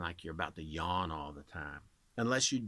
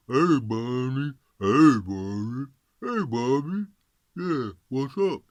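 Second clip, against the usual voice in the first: round dull voice; 3 semitones higher, 11 dB louder than usual. Shown as a demonstration. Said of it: "a dull sound like that, a round sound".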